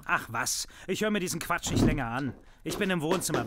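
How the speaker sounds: loud, fed-up outburst; irritated father leaving the room; angry. Acted. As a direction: storm out of the argument. Father storms off angrily.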